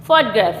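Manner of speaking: "फोटोग्राफ" as FOT-graf, middle vowel nearly dropped; "फोटोग्राफ" with an open, English first vowel; corrected pronunciation. Shown as a demonstration. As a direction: model "फोटोग्राफ" as FAA-tuh-graf, falling. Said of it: "इसको बोलेंगे फोटोग्राफ".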